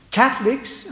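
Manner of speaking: "Catholics" lifted high and loud with a rising tune; emphasized word. Shown as a demonstration. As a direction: lean hard on "Catholics", pitch jumping up. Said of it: "and I emphasize the word".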